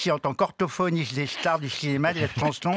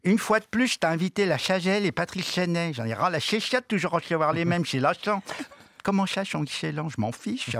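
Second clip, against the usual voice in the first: mock angry boss; 3 semitones higher than usual. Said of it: "dit Nagui".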